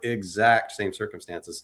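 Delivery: "exact" set apart and stressed. Shown as a demonstration. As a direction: lean firmly on the word "exact". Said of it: "Emphasis on the word exact".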